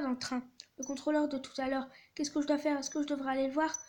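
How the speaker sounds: dramatized reading of a text-message story; story read-aloud. A narrator's reading. Son texting his mother about the conductor, acted story reading.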